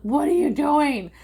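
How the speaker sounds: high, loud protest; alarmed outcry. Retold or imitated. Daughter protesting as mom throws things out, high loud alarm. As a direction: cry out in alarm. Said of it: "And I was like".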